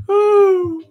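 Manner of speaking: very high breathless laugh cry; laughing squeal. Real, not acted. Cracking up at the stream, squealing laugh.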